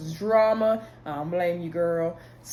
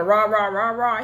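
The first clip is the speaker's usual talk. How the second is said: punchy mock ranting rah-rah; exaggerated aggressive blustering; mock aggression; 2 semitones higher, 5 dB louder than usual. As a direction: imitate someone coming on strong. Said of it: "she made it like he was, really on".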